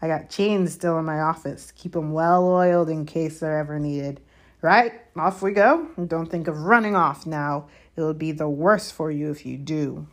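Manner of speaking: a lightly voiced sneering old caretaker; Filch voice. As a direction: gloat over the punishment. Filch threatens the students.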